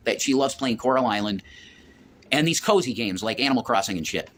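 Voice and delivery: talking with a dry mouth; sticky, dry-mouthed speech from talking a lot. Real, not acted. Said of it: "my mouth is dry 'cause I'm talking a lot".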